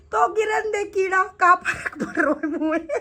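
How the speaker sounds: carefree, breaking into a laugh; laughing nonchalance. Retold or imitated. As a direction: shrug it off and end laughing. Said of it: "वो हंस हंस के ये बात बोल रहा है". (बेफ़िक्री से हँसते हुए)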